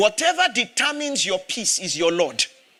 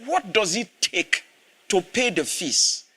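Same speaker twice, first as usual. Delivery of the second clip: gentle voice of God; 3 semitones lower than usual. Retold or imitated. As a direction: ask it patiently, like a gentle teacher. The Lord speaks to pastor.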